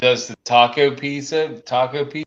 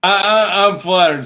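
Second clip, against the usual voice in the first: mock flattered; 7 semitones higher, 10 dB louder than usual.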